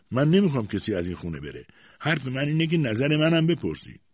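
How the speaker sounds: mild tearful plea, rising in pitch; tearful protest. A narrator's reading. Mother asking to be consulted, mildly tearful protest. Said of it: "با گریه گفت".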